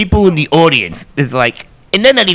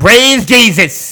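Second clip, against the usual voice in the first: preacher voice; 5 semitones higher, much slower than usual. Pretend. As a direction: stretch it out like a sermon. Mock church call and response.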